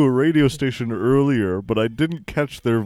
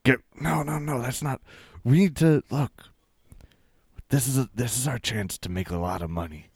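hushed aside; 4 dB quieter than usual. Acted.

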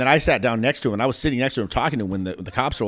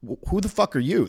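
retold yell; 7 semitones higher than usual. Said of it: "I'm like".

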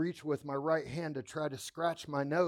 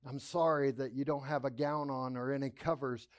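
sweet nurse; 2 semitones lower than usual. Retold or imitated. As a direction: gently comfort the frightened patient. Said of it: "she was the sweetest girl".

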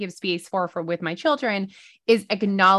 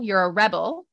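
"rebel" as the noun, REB-el; "rebel" said REB-el, lifting at the end; stress on first syllable. Shown as a demonstration. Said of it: "where to put the ex-, the accent".

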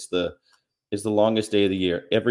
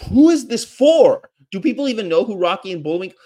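incredulous; 10 semitones higher, 7 dB louder than usual. Real, not acted. Vlogger baffled by an outdated cartoon reference, shrieking. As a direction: shriek the question in disbelief. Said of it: "incredulous outburst".

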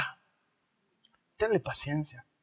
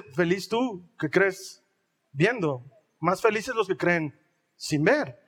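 slow, lower, tender blessing; gentle Jesus; 3 semitones lower, slower than usual. Retold or imitated. Jesus gently blessing Thomas, slow and tender. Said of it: "le dice".

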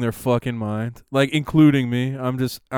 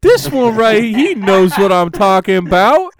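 fervent audience member; 7 semitones higher, 8 dB louder than usual. Retold or imitated. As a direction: declare it like a true believer. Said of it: "in the audience, like".

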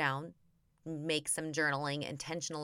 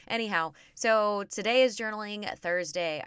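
ordinary talk

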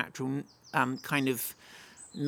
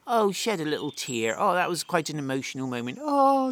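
mock sentimental; 3 dB louder than usual. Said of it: "it's not just".

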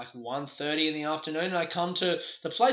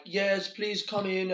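put-on slow, higher, half-committed German accent; 5 semitones higher, slower than usual. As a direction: try a light, bad German accent. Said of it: "not gonna do that German accent".

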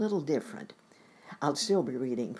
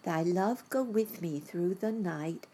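put-on child's bedtime prayer; 3 semitones higher than usual. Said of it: "said her good-night prayer".

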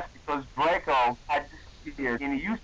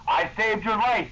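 mock angry yell; 5 semitones higher, 3 dB louder than usual. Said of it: "he yelled angrily".

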